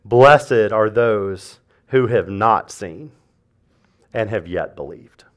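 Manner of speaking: low, soft, very slow scripture; hushed scripture voice; soft reverent reading. Acted. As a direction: read it gently like a blessing.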